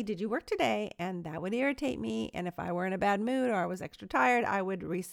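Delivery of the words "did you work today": a mild, nice husband's question; husband innocently asks his wife; very nicely. Retold or imitated. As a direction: ask it sweetly and innocently. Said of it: "But he would say very nicely".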